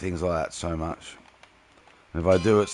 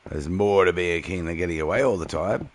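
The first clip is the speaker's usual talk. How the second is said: Mufasa impression; 2 semitones lower than usual. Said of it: "The Mufasa voice?".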